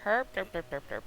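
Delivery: dopey self-mocking derp; derp noises. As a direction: play dumb at yourself. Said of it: "Oh, that's right, duh".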